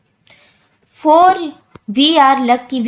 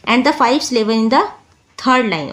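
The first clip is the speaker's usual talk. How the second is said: slow reading; much slower than usual. Shown as a demonstration. Reads text slowly.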